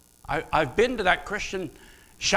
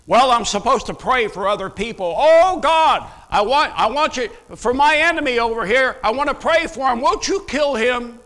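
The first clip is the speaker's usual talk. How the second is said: mock vengeful prayer; 6 semitones higher, 6 dB louder than usual. Mocking an angry imprecatory prayer.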